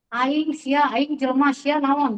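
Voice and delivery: mimicking the students' coarse talk; mock crude schoolkid talk in Sundanese; mock rough Sundanese slang. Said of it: "saya suka langsung ikutan ngomong".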